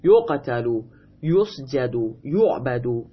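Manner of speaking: یقتلو، یسجدو، یعبدو said yuqtalu, yusjadu, yu'badu; passive vowelling. Shown as a demonstration. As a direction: list یقتلو، یسجدو، یعبدو each opening on "yu".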